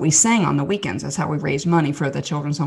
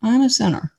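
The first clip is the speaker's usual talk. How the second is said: dawning realisation; 8 semitones higher than usual. Retold or imitated. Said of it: "and I was like".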